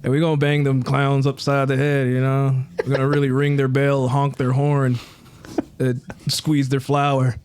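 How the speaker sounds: a lightly voiced wrestler cutting a promo; growl-free, hammed-up trash talk at the clowns; wrestling promo voice. Wrestler cutting a promo at the clowns, lightly hammed-up. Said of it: "I gotta figure out my voice".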